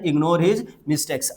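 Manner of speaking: each word drawn out slowly for learners; slow dictation pace; slow model phrase. Shown as a demonstration. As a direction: spell it out slowly for students to repeat. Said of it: "आप बोल सकते हैं".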